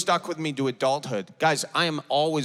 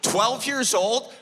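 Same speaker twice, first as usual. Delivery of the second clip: retold heckler; 3 semitones higher, slower than usual. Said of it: "somebody shouted back".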